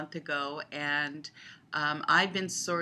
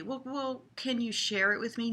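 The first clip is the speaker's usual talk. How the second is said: mock pleading; 6 semitones higher than usual. Pleading in the pretend game.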